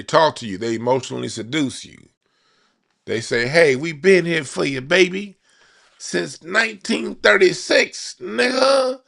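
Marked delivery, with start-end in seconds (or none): 3.5-9.0 high, sweet-talking party voice, much higher; smooth-talking seducer. Retold or imitated. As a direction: coo it like a player sweet-talking a lover. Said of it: "That's how the Democrat Party talk".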